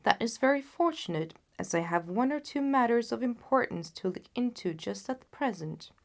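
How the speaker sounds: casual and unhurried; a hint of a breezy Holmes; lightly voiced Holmes. Holmes plans with the king.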